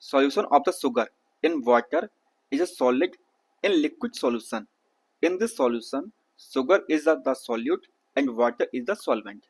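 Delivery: slow, careful textbook read-aloud. Shown as a demonstration. Teacher reads the textbook to his students, slow read-aloud. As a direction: spell out each word slowly for the class.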